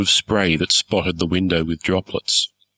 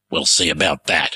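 grim; 4 semitones lower than usual. Acted. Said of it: "he said grimly".

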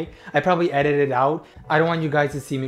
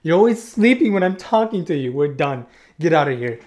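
a mock-angry telling-off, a touch louder; mock scolding; 4 dB louder than usual. Telling off her sleeping cat, mock angry. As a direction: scold with pretend annoyance.

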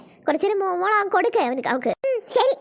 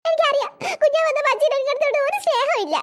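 higher, whining through tears; tearful complaint; 5 semitones higher than usual. Acted. Child complaining to father after new babies came, tearful whine. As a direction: wail like a child who feels unloved. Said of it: "നിന്റെ കരച്ചിൽ കേട്ടിട്ട്".

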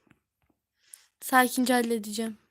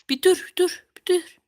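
shout; 6 semitones higher, 8 dB louder than usual. Real, not acted. Friends won't stop pressing.

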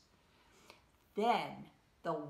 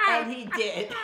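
louder, higher dramatic line; 4 semitones higher, 8 dB louder than usual. A narrator's reading. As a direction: announce it with big drama.

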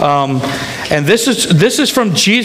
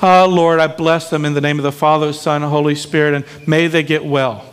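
timid prayer; 3 semitones lower than usual. Retold or imitated. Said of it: "Not one of these sissies".

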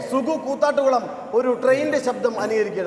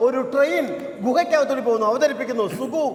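stage announcer. Real, not acted. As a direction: announce the act to a hall. Mock-grand announcement of act. (Stage അവതാരകന്റെ ശൈലി)

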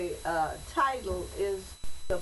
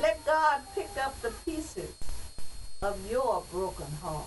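poem recitation. Acted. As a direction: recite it like a church poem, each phrase set apart. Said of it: "But I'm gonna read it as a poem".

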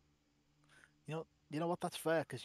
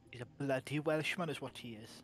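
put-on Welsh accent; 7 dB louder than usual. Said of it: "Welsh accent like this".

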